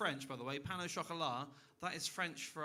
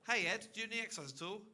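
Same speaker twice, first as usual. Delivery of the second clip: mock interviewer; 5 semitones higher, faster than usual. Shown as a demonstration. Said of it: "I'm gonna ask you that question again".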